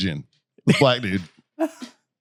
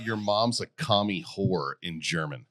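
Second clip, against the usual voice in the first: softer, slower voice command to Siri; quiet voice command; 6 semitones lower, 9 dB quieter than usual. Real, not acted. Asking Siri quietly for a German insult. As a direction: speak low and slow to the phone. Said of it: "how do you say".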